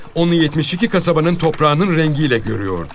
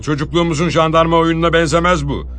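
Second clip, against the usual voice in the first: sergeant's warning; 4 semitones higher than usual. Acted. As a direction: warn him half-jokingly, voice raised. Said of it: "demişti".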